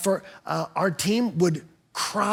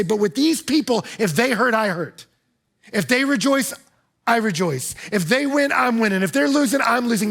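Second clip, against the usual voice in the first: building refrain; 3 semitones higher, 4 dB louder than usual. Acted.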